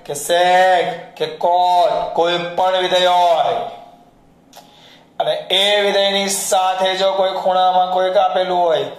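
loud, drawn-out mock yelling; imitated shouting. Teacher re-enacting his own shouted rule for the students, mock yelling. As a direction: holler each function name out long, like a teacher drumming it in. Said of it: "એમ બૂમો પાડતા".

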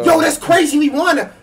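high shrieking win cry; shrieking jackpot winner. Real, not acted. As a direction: scream with joy at the win. Team wins the match.

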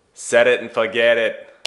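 slow, salesman-style mock Ron Popeil catchphrase; hammed-up pitchman accent, drawn out; bad Ron Popeil impression. To viewers, imitating Ron Popeil's infomercial pitch in a bad accent. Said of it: "That was a bad accent".

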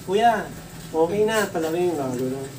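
mild meek little voice, lightly done; meek as a kitten. Retold or imitated. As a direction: sound like a tame cat asking nicely. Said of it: "maamong pusa".

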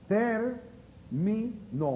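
"Termino" broken very slowly into ter, mi, no; very slow, divided "Termino"; syllable by syllable. Shown as a demonstration. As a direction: separate each syllable of "Termino" with long pauses. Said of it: "Última, penúltima, antepenúltima".

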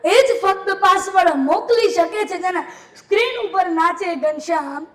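chanting each poem line twice to the crowd; lilting folk recital, addressing sir; dayro poem recital. Acted. Folk poet reciting verses to a live audience, lilting chant.

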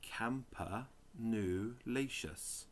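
slow, whispered sounding-out of a hard word. Real, not acted. Reading the dictionary to viewers, slow unsure whisper. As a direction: breathe it out slowly, syllable by syllable.

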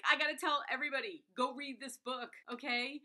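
loud, fast burst of enthusiasm; excited urging. Acted. Reader just finished the book and must tell everybody, excited urging.

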